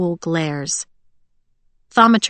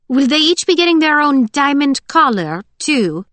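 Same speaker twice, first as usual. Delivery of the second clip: higher, louder sarcastic jab; mocking taunt; 8 semitones higher, 4 dB louder than usual. A narrator's reading. Scarlet taunting Holt about his soldiers, mocking. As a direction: needle them with a raised, mocking question.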